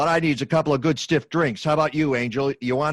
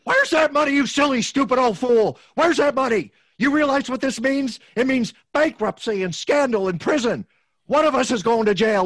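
loud, raised furious demand; angry yell; 5 semitones higher, 5 dB louder than usual. Acted. George yelling at his uncle over the money, furious. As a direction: shout him down in panic.

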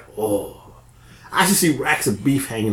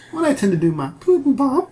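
fake commercial voice; 11 semitones higher than usual. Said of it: "Do your fake commercial".

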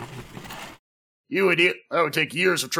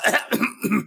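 coughing; 5 semitones higher than usual. Acted. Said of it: "making my allergies act up".

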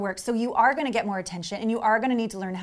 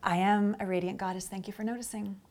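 softer, calm self-affirmation; quiet inner mantra; 3 semitones lower, 7 dB quieter than usual. Shown as a demonstration. Coach demonstrating the inner goddess mantra softly. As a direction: murmur it to yourself. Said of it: "You say it in your head".

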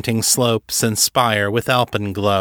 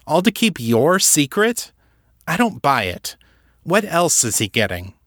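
higher-pitched, building disbelief; incredulous challenge; 5 semitones higher than usual. Acted. Kate challenging Levinson on what Artax gets, incredulous. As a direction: argue the point, pitch climbing with incredulity. Kate argues she doesn't believe him.

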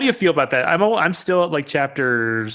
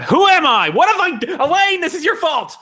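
mock dismay; 13 semitones higher, 4 dB louder than usual. Real, not acted. Mock panic blaming friend.

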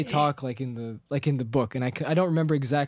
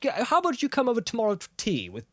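flustered Bilbo; 7 semitones higher than usual. Retold or imitated. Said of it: "he's just like".

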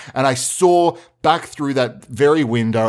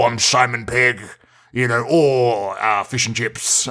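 put-on butchered British accent. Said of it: "butchered British accent".

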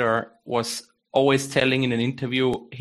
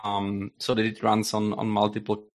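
breaking up over a bad call; glitching audio; 3 semitones lower, 3 dB quieter than usual. Real, not acted. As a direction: connection dropping out mid-sentence. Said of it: "you keep cutting out".

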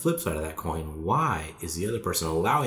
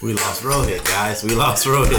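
laughing; 7 dB louder than usual. Real, not acted. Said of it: someone tells the speaker they're hilarious.

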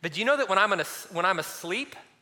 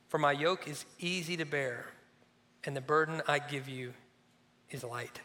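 tender invitation. Acted. Reading Jesus' invitation.

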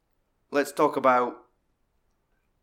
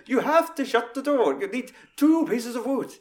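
high, explaining each step; Oswaldo's instructions; 11 semitones higher, 3 dB louder than usual. Retold or imitated. Oswaldo calmly instructing how to shut the door. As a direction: patiently spell out the instructions. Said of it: "doing it in completely different tempos".

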